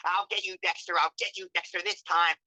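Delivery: choppy villain laugh. Shown as a demonstration. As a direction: cut the cackle into short bursts. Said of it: "make it a choppier laugh".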